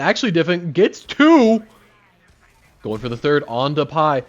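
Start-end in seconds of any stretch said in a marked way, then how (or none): 0.7-1.6 loud hype caster shout; excited call. Real, not acted. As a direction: shout the double kill. Caster calls double kill.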